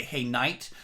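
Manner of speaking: night with a clean ah-ee vowel; American night. Shown as a demonstration. Coach contrasting how Americans say night. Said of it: "for you guys in America, you say".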